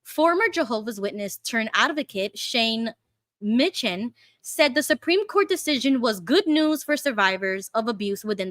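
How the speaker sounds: steady, careful article reading; measured read-through of a news report; news article read-aloud. Acted.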